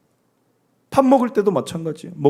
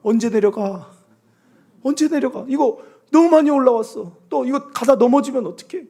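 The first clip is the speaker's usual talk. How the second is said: fretful hiker; 3 semitones higher, 3 dB louder than usual. Retold or imitated. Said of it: "또 이야기합니다".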